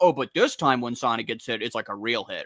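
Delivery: ordinary delivery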